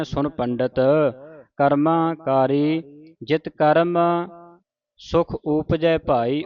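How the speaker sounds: slow, measured recitation with drawn-out vowels; scripture recitation. Shown as a demonstration. Teacher reciting a shabad for the congregation, slow measured recitation. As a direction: recite the sacred verse slowly, stretching line endings.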